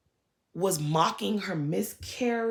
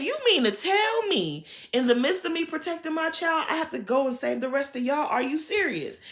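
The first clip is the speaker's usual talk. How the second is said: raised, higher mock outrage; indignant retelling; 7 semitones higher than usual. Retelling Garcelle confronting Diana, mock outraged. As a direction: read her the way Garcelle did. You're about to get read.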